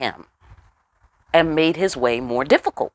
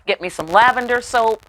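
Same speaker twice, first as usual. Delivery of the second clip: carefree empress; 5 semitones higher than usual. Retold or imitated. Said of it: "And she'd be like".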